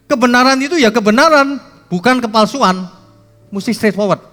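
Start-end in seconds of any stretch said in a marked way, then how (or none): none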